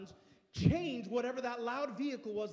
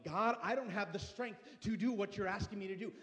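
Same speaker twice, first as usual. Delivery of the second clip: building prayer. Acted. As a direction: let the prayer swell with each line.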